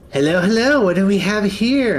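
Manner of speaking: put-on high, loud curious old crone greeting; cackly old lady sniffing out guests; old woman Maggie. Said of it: "and she goes".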